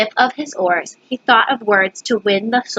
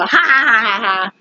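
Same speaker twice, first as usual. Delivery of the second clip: mocking royal laugh. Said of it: "they go".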